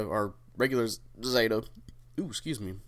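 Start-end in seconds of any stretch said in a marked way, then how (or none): 2.2-2.7 hiccup. Real, not acted. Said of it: "Hiccuping there".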